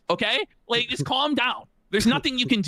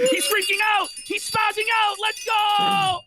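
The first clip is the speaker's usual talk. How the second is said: laughing excitement; 13 semitones higher, slower than usual. Real, not acted. Laughing at Rich's meltdown clip.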